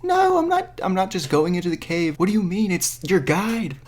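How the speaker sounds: very high-pitched, shrieky protest; mock screaming. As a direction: imitate her screaming at the guide. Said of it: "screaming at the guide".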